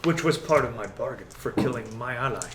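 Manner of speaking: measured villain bargaining; lightly voiced menacing negotiator; Strahd. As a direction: weigh the wager with unhurried authority. Game master plays Strahd bargaining.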